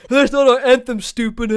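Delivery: mock scolding. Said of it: "grilling me".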